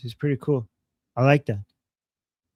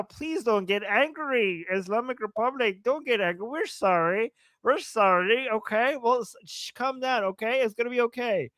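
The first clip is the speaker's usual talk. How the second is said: mock pleading; 6 semitones higher than usual.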